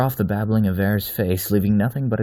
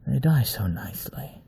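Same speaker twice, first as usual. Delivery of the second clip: whisper; 6 semitones higher than usual. Acted. Wolf whispers to himself.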